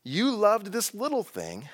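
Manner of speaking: a slow, knowing divine challenge; voicing God. Preacher voicing God's challenge to Jonah, lightly. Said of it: "God's gonna say".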